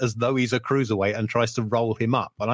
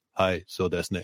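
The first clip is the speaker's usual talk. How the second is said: dry, low deadpan delivery; 5 semitones lower, 4 dB quieter than usual. Imitating a wrestler's reply on commentary: dry Misawa impression. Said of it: "who was incredibly dry".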